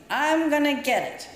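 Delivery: put-on high, alarmed kid; childish dread. Little girl panicking about her father's punishment. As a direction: blurt it like a scared child.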